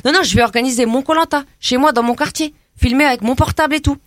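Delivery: put-on brash teen girl from the estate, chatty and cocky; cheeky suburban girl. Comedy guest chatting to the radio host as a cocky suburban girl. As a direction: play a gossipy banlieue girl full of slang. Same character continues.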